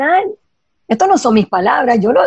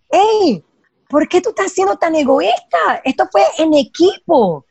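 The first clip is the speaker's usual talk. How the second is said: higher, indignant reproach from the team; mock angry team; 4 semitones higher than usual. Team confronts a selfish member who took credit, mock indignant and higher. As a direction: play the offended coworkers calling you out, pitched up. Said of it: "el equipo se pone bravo contigo".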